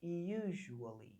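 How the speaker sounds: usually said slowly, syllable by syllable; teacher models usually slowly; slow model pronunciation. Shown as a demonstration. Teacher models the word for students, slow careful pronunciation. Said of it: "Diga lá comigo".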